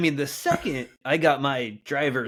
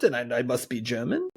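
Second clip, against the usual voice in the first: mock German accent; 4 semitones lower, 4 dB quieter than usual. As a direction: lower put-on German accent. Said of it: "in a German accent".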